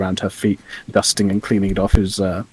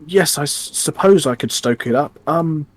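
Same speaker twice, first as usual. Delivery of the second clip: higher-pitched, hesitant little gnome; gnome innkeeper; 4 semitones higher, 3 dB louder than usual. Acted. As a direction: fumble for words as the gnome innkeeper. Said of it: "the gnome looks over to the".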